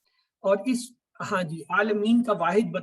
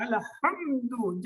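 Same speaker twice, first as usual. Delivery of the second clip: drawn-out recitation; 5 semitones higher, much slower than usual. Shown as a demonstration. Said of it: "حلق سے تو آواز نکلا ہی نہیں".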